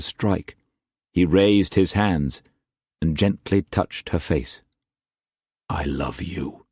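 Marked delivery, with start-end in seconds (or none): 5.7-6.7 very soft, tender repeat; almost breathe it to her; softly repeating love to calm her. A narrator's reading. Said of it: "he repeated".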